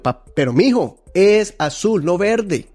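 put-on a stubborn dad correcting his boy; annoyed father. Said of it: "se enojó y le dijo". (papá enojado, imitado con tono más alto)

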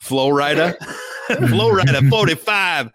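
mock rally chant of Florida forty-five; Trump impression. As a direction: ham up the political slogan. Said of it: "I have to do".

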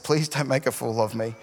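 low, hushed plea to God; under-the-breath prayer. Retold or imitated. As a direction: pray it quietly to yourself. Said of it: "under my breath".

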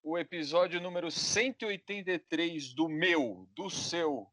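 showman announcing the show. Acted. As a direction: hype it like a ringmaster. Circus-style show opening.

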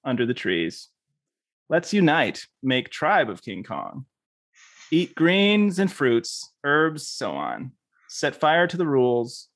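earnest, measured poetry reading; poem reading. Acted. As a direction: read it like a grand manifesto poem. Reads a poem aloud.

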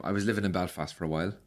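low, soft Belfast line; Belfast accent attempt. Shown as a demonstration. Host demonstrating for accent game, low Belfast accent attempt. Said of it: "can you do my accent?".

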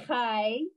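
chay alone, throaty ch, rising; first syllable chay. Shown as a demonstration. Teacher splits the word for a student, sounding out syllables. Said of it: "So you have".

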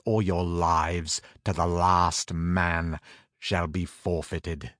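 loud king, slowing to threat; stern commanding king. Acted. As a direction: give a tyrant's order, then threaten. King orders the tower built.

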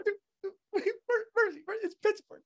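high, fast, strained yell; angry Pittsburgh driver. Retold or imitated. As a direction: rant like a local defending his city. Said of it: "then he gets mad".

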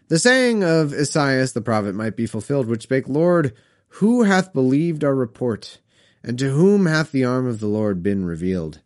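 put-on measured read-aloud of old Bible verse; scripture reading. A narrator's reading. Reads scripture aloud between comments.

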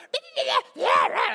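high hammed-up laugh at a yapping dog; high mocking chuckle; mock cackle. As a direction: laugh like it's adorable. God laughing at little dogs.

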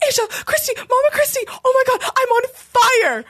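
high, frantic retold yell for help. Friend in the shower calling for help, a high frantic yell. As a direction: cry out like you're burning. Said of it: "yelling on the top of her lungs".

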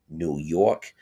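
hammed-up New York accent on the city's name; New Yorker accent, badly faked. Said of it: "it's a horrible New York accent".

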